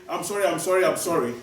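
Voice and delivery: quick, repeated throwaway apology; perfunctory run of apologies; not genuinely sorry. Shown as a demonstration. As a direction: rattle off sorries without meaning them. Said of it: "you are not really genuinely sorry".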